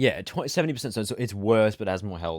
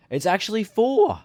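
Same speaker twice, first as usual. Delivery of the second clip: much higher, loud triumphant call; gleeful; 13 semitones higher, 9 dB louder than usual. Real, not acted. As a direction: crow it like you won. Correcting friend gleefully.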